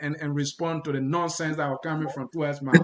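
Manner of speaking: a laugh under the words. Real, not acted. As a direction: keep chuckling as you mock. Host still laughing at clip.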